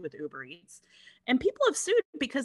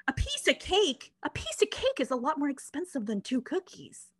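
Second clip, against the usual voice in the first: triggered indignation; 5 semitones higher than usual. Retold or imitated. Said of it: "that triggered the guy".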